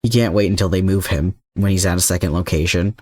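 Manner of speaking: plain reading voice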